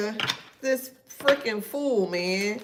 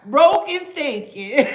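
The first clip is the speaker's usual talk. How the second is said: laughing; 5 semitones higher, 7 dB louder, slower than usual. Real, not acted. Laughing mockery.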